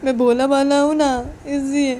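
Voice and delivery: loud, upset lecture to a partner; acted crying outburst; tearful reproach. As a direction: complain hurt and loud, as if through tears. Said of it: "बोलती रोते रोते".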